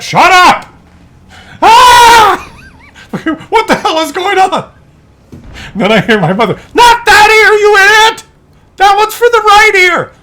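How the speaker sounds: put-on bickering old couple shouting; elderly parents yelling. Old parents shouting about hearing aids, high strained voices.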